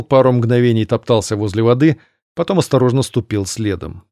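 plain reading voice

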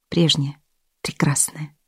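hushed, fading narration; whisper. A narrator's reading. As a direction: breathe the words softly.

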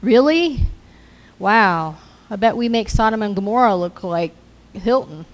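mock exasperation at the news on TV; incredulous. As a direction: scoff at the news in disbelief. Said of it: "I just wanna say".

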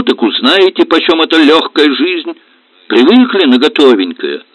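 high, loud aggrieved tirade; mother-in-law scolding the whole family; indignant rant. Acted. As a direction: pour out every grievance. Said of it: "завозмущалась тёща".

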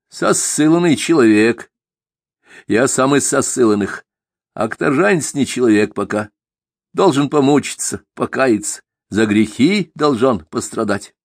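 lightly voiced stern old man; old man Avvakum voice.

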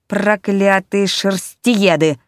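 slow, furious cursing; angry yell. Acted. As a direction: spit out the curse slowly. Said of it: "заорал котёнок".

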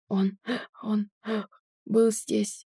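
gasping out broken words; struggling for each breath; shallow breathing. A narrator's reading. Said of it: "с трудом смог произнести". (с трудом, задыхаясь)

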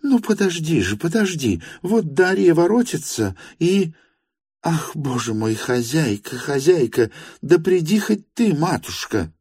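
put-on calm him down like a frightened child; coaxing like a child. Varvara Petrovna coaxes the sick Stepan Trofimovich like a child. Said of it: "уговаривала она его, как ребёнка".

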